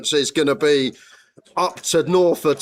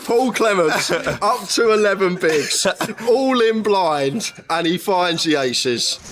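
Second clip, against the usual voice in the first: laughing; 3 semitones higher, slower than usual. Real, not acted. Laughing commentary, drawn out.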